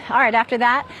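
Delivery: breathless after the slide; a little winded, catching breath. Real, not acted. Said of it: "I'm a little bit out of breath".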